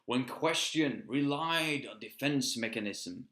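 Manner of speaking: rhythmic rhyming poem read; poem recital. Acted. Poet reciting his own verse to viewers. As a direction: recite it like a spoken-word piece.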